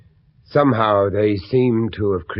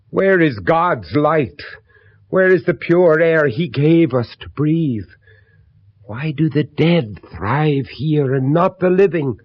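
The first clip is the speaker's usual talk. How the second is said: louder, slow and accusing; impassioned anger; 3 semitones higher, 6 dB louder, slower than usual. Acted. Father confronting the widow about her cursed house, impassioned. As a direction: hurl each question at her.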